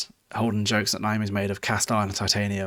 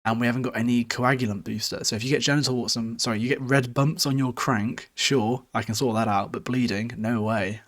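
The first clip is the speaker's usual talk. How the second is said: mildly raised, agitated retelling; increasingly higher pitch. Retold or imitated. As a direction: lightly imitate someone getting more worked up. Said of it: "getting increasingly higher pitch in his voice".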